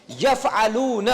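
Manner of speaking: very drawn out, syllable by syllable; slow drill prompt. Shown as a demonstration. Teacher sets students a verb to parse, slowly stretched. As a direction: stretch یفعلون slowly with long vowels.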